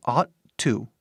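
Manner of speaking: "ought to" run together, one T only; "ought to" blended fast like "otta"; linked T. Shown as a demonstration. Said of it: "quando falamos rápido, esses T's ... juntam".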